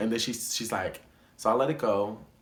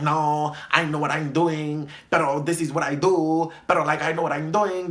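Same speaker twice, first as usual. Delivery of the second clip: lightly put-on Dominican-accented English, a bit higher and louder; mild imitation of a Dominican accent, insisting she knows what she's doing; her Dominican accent; 4 semitones higher, 4 dB louder than usual. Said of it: "this is her accent".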